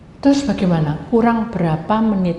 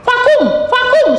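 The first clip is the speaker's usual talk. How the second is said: much higher, loud laughing shout; 4 dB louder, much slower than usual. Retold or imitated. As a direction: yell the command, half laughing. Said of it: "sampai teriak-teriak gitu".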